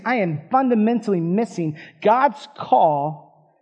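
ordinary delivery

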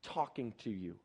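lightly acted shame, sinking at the end; ashamed. Ashamed woman telling Jesus she is unworthy, voice dropping. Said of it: "she was full of shame".

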